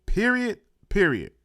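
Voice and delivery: mimicked "Period", falling on each; imitated emphasis. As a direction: echo his "Period" as a two-step verdict. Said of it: "He put emphasis on that shit".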